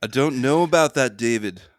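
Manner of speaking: Liverpool accent. Told he could be one of the band members, trying a singer's Liverpool accent. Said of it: "I'm trying to do my Liverpool singer accent now".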